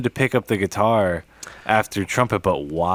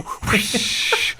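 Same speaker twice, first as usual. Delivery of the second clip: imitated hi-hat whoosh; 10 semitones higher than usual.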